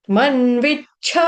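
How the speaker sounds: मन्विच्छ slowly, starting on the m; separate word. Shown as a demonstration. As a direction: lean into the n and chchh of मन्विच्छ. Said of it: "मैंने कैसे बोला बाद में". (मन्विच्छ अलग से, खींचकर)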